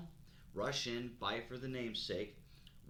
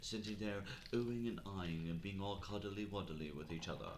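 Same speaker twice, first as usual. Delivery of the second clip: hushed safari guide voice; nature documentary narrator. Pretend. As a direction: play a cheesy wildlife narrator. Mock nature documentary tour.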